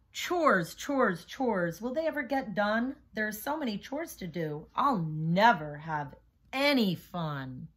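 rhythmic rhyming read-aloud; reading to children. A narrator's reading. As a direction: bounce the rhymes for young listeners. Reads picture book to class.

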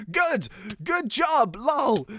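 high, slow game character voice; mock congratulations, drawn out and high; lightly hammed-up praise. Reads game's praise in character.

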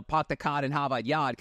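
put-on low, offhand Boston accent; mock Boston accent. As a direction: toss off a Boston-accent catchphrase. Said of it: "it's not like you went".

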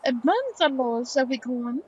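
put-on a rough stab at a French accent; attempted French accent. France urging a companion onward, attempted French accent. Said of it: "French accent's getting a little bit better".

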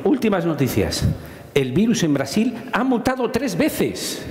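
quoting the newspaper headline; headline read out. Retold or imitated. Quoting the scary headline to the audience, read out. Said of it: "Eh, ponía".

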